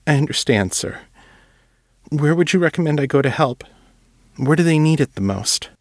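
put-on an earnest young writer begging to help; young Will, earnest. Will, moved, asking.

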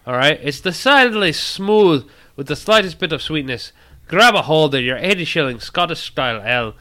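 put-on a loosely held Scottish accent reading a beer label; hammy Scottish accent that drifts. Host reads the beer description aloud in a Scottish accent. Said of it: "good Scottish accent or a bad Scottish accent".

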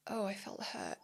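whispered, tender admission of hurt; vulnerable hurt. Acted. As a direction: whisper it softly, as if just discovering the hurt. Voicing hurt found underneath frustration.

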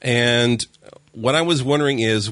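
usual speaking voice

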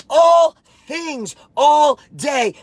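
shouted mantra with full conviction. Shown as a demonstration. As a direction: yell it like you mean it. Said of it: "say it like you mean it".

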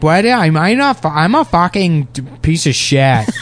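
imitating a ditzy mall girl swearing; Valley Girl accent. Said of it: "the Valley Girl accent".

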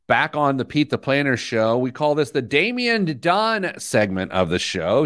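slowed, announcing radio host voice; show host intro. Acted. Host welcoming listeners back to the show, announcer style. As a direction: open the segment like a radio host.

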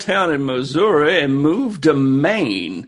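put-on Mark Twain accent. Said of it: "use the accent".

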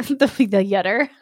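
giggling at a misread word; laughing. Real, not acted. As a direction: laugh through it. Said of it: "laughs at misreading".

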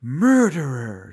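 loud, drawn-out mock accusation; accusing ghost woman. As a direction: wail the accusation slowly, hammed-up.

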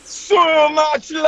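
slow mock-Jamaican accent; joke Jamaican accent. Guest asked how many loves there were, mock Jamaican. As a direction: stretch it out in a put-on Jamaican accent. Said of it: "are you also Jamaican now".

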